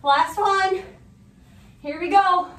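strained, effortful voice while working out; straining mid push-up. Real, not acted. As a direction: talk through the burn of push-ups. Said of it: "my arms are burning".

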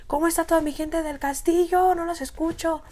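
high, showy stage MC greeting; calling out to the crowd. Retold or imitated. Young rapper greeting the club crowd from stage, high MC hype call. Crowd silent, he calls again.

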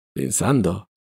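finally got out. A narrator's reading. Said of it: "poté infine pronunciare".

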